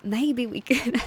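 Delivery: light southern drawl on maybe we could; a hint of a southern belle; southern accent. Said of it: "give her a southern accent".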